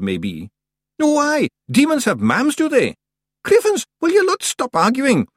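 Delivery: high, loud Scottish squabble; bickering Feegles, exasperated. A narrator's reading. Feegles argue about demons within the witch's hearing, bickering. Voices squabbling little clansmen.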